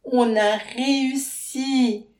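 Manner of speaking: high, loud triumphant cheer, slow; exulting. A narrator's reading. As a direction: cry out in joyful relief. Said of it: "exulte Faustine".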